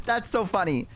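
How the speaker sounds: high, amused retelling of her reaction; imitated amusement. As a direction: imitate someone tickled by it. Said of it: "like, a genuine laugh".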